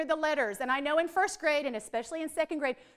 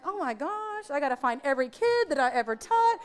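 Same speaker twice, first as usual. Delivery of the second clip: mock dismay; 2 semitones lower than usual. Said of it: "and I was like".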